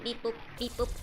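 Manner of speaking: lightly voiced sexy robot; a playful near-plain robot voice. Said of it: "This is my sexy robot voice".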